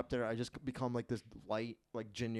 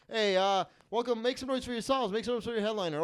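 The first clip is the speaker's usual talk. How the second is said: mock hype host voice, much higher and a bit louder; cheesy club host; 9 semitones higher, 5 dB louder than usual. Mocking a comic who hosts, in a hyped host voice. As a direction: pump the crowd like a canned emcee. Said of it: "you go up there, you say".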